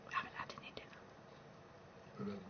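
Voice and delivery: whispered aside; low whisper. Real, not acted. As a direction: breathe it under the voice. Quiet aside about no dinner.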